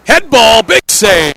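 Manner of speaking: loud, high burst on the header; sudden excited shout at the save; excited call. Real, not acted. Sudden save in front of goal.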